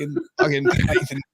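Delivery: usual speaking voice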